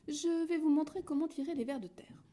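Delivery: mother hen teaching her brood. A narrator's reading. Mother hen speaking to chicks.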